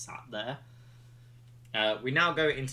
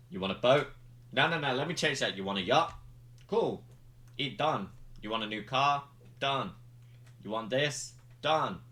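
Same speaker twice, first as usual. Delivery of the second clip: loud, higher, rapid offers; excited bribe offers; 4 semitones higher, 3 dB louder than usual. Retold or imitated. Roman tempting Jimmy with gifts, loud and higher. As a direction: dangle prizes like a salesman. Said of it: "It's like".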